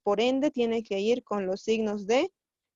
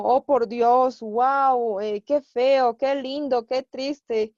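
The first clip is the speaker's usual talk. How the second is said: exclamations; 4 dB louder, much slower than usual. Shown as a demonstration. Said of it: "para expresar un estado de ánimo".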